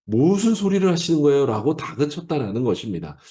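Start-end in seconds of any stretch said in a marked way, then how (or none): 0.0-1.5 higher-pitched scolding protest; imitating an indignant reproach; mock rebuke. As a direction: take him to task, mildly acted. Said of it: "꾸짖듯이".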